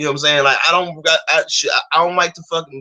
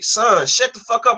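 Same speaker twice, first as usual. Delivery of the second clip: higher, slow imitation of a scolding mom; mother scolding; 8 semitones higher, slower than usual. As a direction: play his mother telling him off. Mother voiced scolding son.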